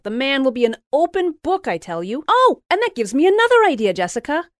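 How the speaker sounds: high, loud, rapid gushing; gushing excitement. A narrator's reading. Louise gushing plans to Jessica, high and loud. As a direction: conspire with giddy glee.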